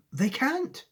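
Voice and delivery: a firm little answer; Charlie's voice. Acted.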